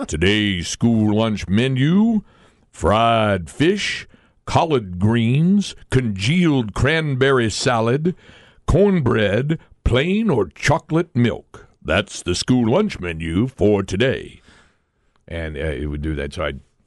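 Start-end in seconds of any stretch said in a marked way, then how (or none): 0.1-14.4 mellow, slow, rich broadcaster-style announcer delivery. Recalling a man who read the school lunch menu each morning, imitating deep rich baritone. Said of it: "he had this deep, rich baritone voice".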